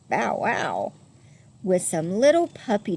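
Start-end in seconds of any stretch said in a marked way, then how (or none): 0.1-0.9 dog bark. A narrator's reading. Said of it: "a big red dog".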